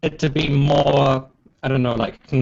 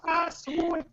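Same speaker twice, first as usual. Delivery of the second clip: excited anime fan; 7 dB quieter, slower than usual. Pretend. Joking anime Japanese.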